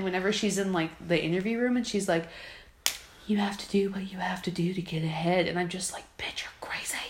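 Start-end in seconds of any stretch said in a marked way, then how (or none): 3.3-5.5 whispering. Retold or imitated. Voicing contestant in interview. 5.5-7.0 hushed whisper. Real, not acted. Whispered aside about contestant.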